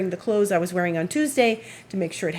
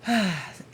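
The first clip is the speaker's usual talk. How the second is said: long weary sigh; exasperated sigh. Real, not acted. Sighing over the late package, exasperated. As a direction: let out a fed-up sigh.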